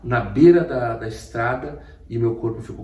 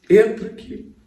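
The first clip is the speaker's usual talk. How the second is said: mysterious voice; 11 semitones higher, 5 dB louder than usual. Retold or imitated. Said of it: "aquela voz disse pra mim assim".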